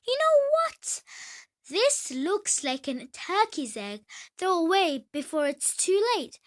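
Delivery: put-on an old duck telling her to throw the egg away. Old duck voiced in story.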